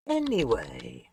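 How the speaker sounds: dramatic storyteller recap; story narration. Acted. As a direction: narrate like a game master. Storyteller recap over music.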